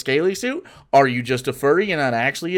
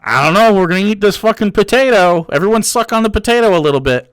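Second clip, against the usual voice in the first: mock poor parent; 3 semitones higher, 5 dB louder than usual. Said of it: "If you're poor and you're just like".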